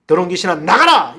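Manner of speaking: loud exorcism command; commanding cry to cast out a spirit; demonstrated shout. Shown as a demonstration. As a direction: call out the rebuke with preaching force. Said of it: "이렇게 우리가 외치면 되는 것입니다".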